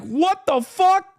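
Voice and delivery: high, slow, stunned what the fuck; awed mock shout. Mao stunned by Kissinger's tall wife, high awed disbelief. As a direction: gasp it out in disbelief. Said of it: "he is in awe".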